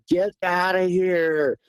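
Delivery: restrained imitation of someone screaming; imitated distant scream. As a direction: stretch the words out like a far-off holler. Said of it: "we thought was someone screaming".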